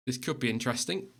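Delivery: hushed snooker commentator voice; snooker commentary. Acted. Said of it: "I've started talking like I'm a snooker commentator now".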